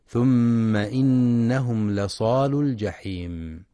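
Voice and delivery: slow, drawn-out melodic tartil; slow Quranic recitation. Acted. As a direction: chant the verse with measured tajweed. Quotes another verse recited.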